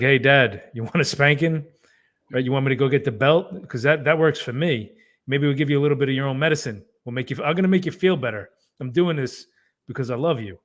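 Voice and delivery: mock-helpful, pushed up and loud; mock kid's taunt. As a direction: play a kid cheerfully parroting a spanking dad. Imagined kid mimicking spanking dad.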